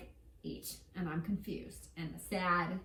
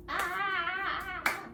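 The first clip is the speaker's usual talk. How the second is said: high drawn-out "ah"; high cry; 9 semitones higher than usual. Real, not acted. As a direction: let out a long high "ah". Cries out while cooking.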